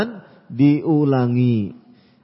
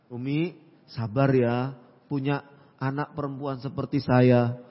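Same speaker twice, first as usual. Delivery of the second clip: softer, unhurried appeal to a mother; pleasant, gentle plea; 3 semitones lower, 5 dB quieter than usual. Acted. Daughter asking Umi for patience, mildly gentle. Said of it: "Enak bahasanya".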